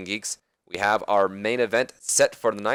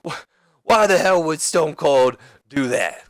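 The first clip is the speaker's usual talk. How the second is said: higher, incredulous wrestler's comeback; acted promo indignation; acted wrestler's retort; 4 semitones higher, 4 dB louder than usual. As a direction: throw the question back, pitched up. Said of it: "He goes".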